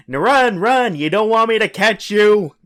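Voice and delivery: high-pitched mock yell; yelling director. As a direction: call out like a director urging an actor on. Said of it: "he's yelling, directing".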